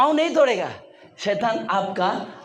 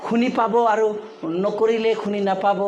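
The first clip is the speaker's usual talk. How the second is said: lightly voiced devil coaxing in Assamese; a hint of a sly tempter talking you out of prayer; Satan's coaxing voice. Satan talking a believer out of prayer, lightly coaxing. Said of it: "लेकिन शैतान क्या बोलता है?".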